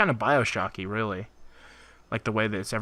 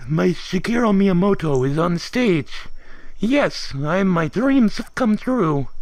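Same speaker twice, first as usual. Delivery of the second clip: higher, slow, hammed-up weepy fan; mock tearful joy; 6 semitones higher, 3 dB louder, slower than usual. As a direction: imitate a grown man crying happily. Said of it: "thirty-something guy crying in the audience".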